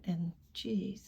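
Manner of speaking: exasperated whisper under the breath; whispered jeez. Real, not acted. Vlogger trailing off after her covid rant, exasperated whisper. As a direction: let it slip out as a tired whisper.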